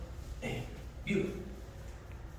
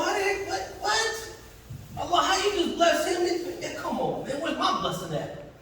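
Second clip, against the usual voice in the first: much softer, bitter disbelieving mutter; jealous grumbling; 4 semitones higher, 6 dB quieter than usual. Retold or imitated. Preacher voicing a man envying a brother's wealth, softly bitter. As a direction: grumble at another's luck half to yourself.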